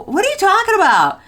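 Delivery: high, alarmed question; confused alarm. Retold or imitated. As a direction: demand it in panicked confusion. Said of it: "I go".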